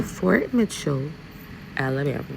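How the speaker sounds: Fort Mitchell drawn out slowly in an Alabama accent; proud slow Alabama accent naming the hometown. Shown as a demonstration. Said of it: "I'll say it again".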